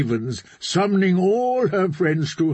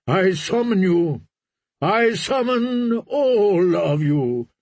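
priest's rising summons; preaching; 3 semitones higher than usual. Acted. Priest summoning the captains and kings, rising. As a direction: call them to Old Wyke like a prophet.

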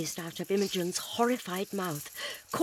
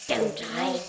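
crackling voice; 2 semitones higher than usual. Acted. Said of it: "crackled the Varden".

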